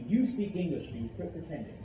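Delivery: assertive statement, falling on "English"; telling, not asking. Shown as a demonstration. Teacher telling a student to quit pretending, firm statement. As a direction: state "You speak English" as a known fact. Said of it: "That's a statement. I'm telling you".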